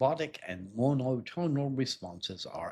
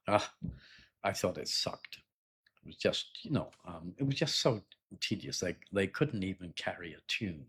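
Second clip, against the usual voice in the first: unimpressed. Shown as a demonstration. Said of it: "if you didn't like it".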